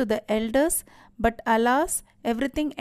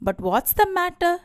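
raised pitch, little extra volume; a touch of acted annoyance; mild angry shout; 7 semitones higher than usual. A narrator's reading. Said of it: "shouted Haru angrily".

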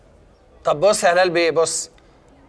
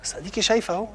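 whispered aside to her; whispered reassurance to his fiancée; hushed whisper; 6 dB quieter than usual. Acted. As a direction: drop to a breathy whisper, as if not to be overheard.

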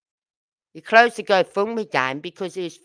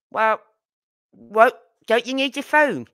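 high, louder baffled question; confused question; 6 semitones higher, 5 dB louder than usual. Retold or imitated. Birmingham friends questioning her, high and baffled.

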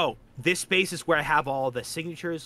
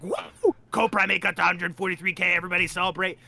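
mock celebration cheer. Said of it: "We'll be like".

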